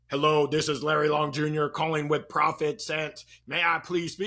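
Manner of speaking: stiff scripted robot voice. Retold or imitated. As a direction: read it like a stiff cold-call script. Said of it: "You sound like a robot".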